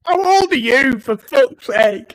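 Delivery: teasing. Real, not acted. Teasing friend's childish word.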